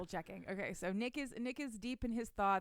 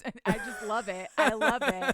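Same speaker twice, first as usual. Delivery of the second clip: gushing; 2 semitones higher, 11 dB louder than usual. Real, not acted. Gushing about characters.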